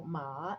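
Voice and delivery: "ma" rising like a question; second tone. Shown as a demonstration. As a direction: glide "ma" upward. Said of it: "what the second tone sounds like".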